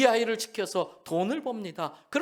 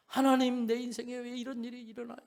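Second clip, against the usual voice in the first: wailing prayer; 4 semitones higher than usual. Retold or imitated. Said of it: "막 통곡을 하면서".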